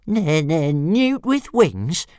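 high, slow stuttering dragon; squeaky outraged stammer. Acted. Dragon indignantly echoing the insult, high and slow. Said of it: "repeated Toothless".

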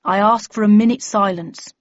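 solemn public address to members; bellman addressing a meeting. Acted.

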